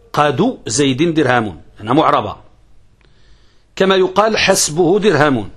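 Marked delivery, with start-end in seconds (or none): 0.1-1.6 قاد said slowly as qadu, the final u on the dal stressed. Shown as a demonstration. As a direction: draw out qadu zaydin dirhamun, leaning on the u. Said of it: "رفع الدال".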